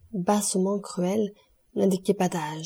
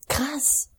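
crowd's cry; 7 semitones higher than usual. A narrator's reading. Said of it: "s'écria le peuple d'un seul cri".

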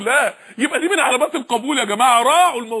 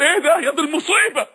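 raised alarmed cry; retold near scream; 3 semitones higher than usual. Uthman at the grave, crying out in alarm. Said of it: "كاد يصرخ على القبر".

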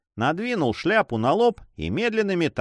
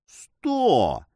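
angry shout; 3 semitones higher than usual. A narrator's reading. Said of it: "закричал красивая голова с гневом".

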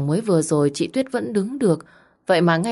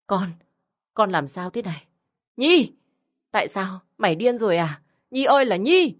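distraught shouting; 3 semitones higher than usual. Acted. Mother shouts at accused daughter.

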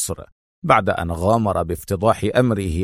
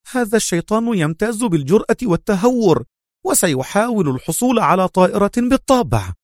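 loud cry; 11 semitones higher than usual. A narrator's reading. Officer realising the spy wants a plane, shouting. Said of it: "وصاح بصوت عال".

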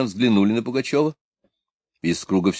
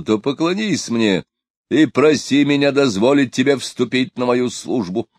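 ordinary delivery

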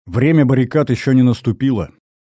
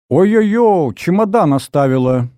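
high flustered mother's wail; lamenting mother; 8 semitones higher, 4 dB louder than usual. Acted. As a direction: fret aloud like a fussing mum. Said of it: "запричитала мама". (мама высоко причитает о забытом чемодане)

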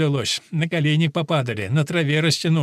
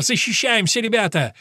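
shout; 6 semitones higher than usual. Acted. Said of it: "закричал Ягуар".

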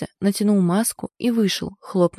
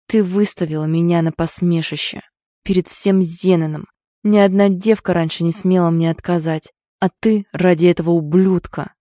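hissed through teeth; 3 dB louder than usual. Acted. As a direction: spit it through gritted teeth. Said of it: "Сквозь сжатые зубы Хейрон прошипел". (прошипел сквозь сжатые зубы)

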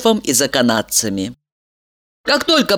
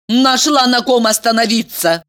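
horrified; 7 semitones higher than usual. A narrator's reading. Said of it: "ужаснулась Елизавета".

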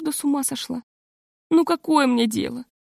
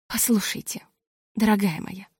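quiet; 5 dB quieter than usual. A narrator's reading. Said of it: "сказала она".

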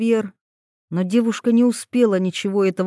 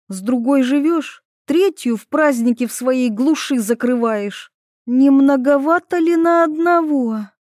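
higher and louder, indignant tirade; accusing; 5 semitones higher, 4 dB louder than usual. Acted. Ivetta reproaches Taras for many girls, loud. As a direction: list his sins at him.

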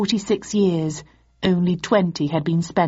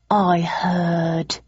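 feigned sadness. Acted. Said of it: "replied Archer with feigned sadness".

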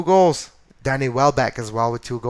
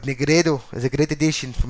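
"Negredo" said as neh-GRAY-doh in an English accent; faster than usual. Shown as a demonstration. English-accented name, as on Fox Soccer commentary. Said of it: "I have to say it with an English accent".

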